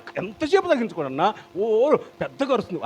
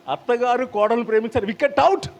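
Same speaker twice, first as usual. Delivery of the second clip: mock umpire call; 6 semitones higher than usual. Cricket umpire call joke.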